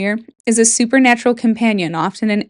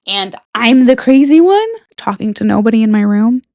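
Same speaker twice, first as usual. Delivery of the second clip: mock indignant; 6 dB louder than usual. Real, not acted. Mock indignant self-defense.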